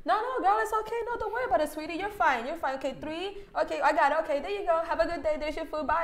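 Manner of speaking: high, soft doting cashier; sweet cashier voice. Retold or imitated. The cashier reassures the girl paying in change, sweetly. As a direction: coo it like a kind cashier. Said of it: "and I'm like".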